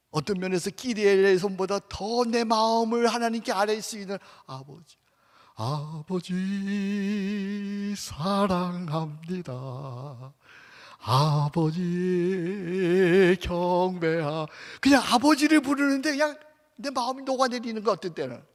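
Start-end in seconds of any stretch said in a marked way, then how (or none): 4.5-14.5 slow worshipful prayer. Shown as a demonstration.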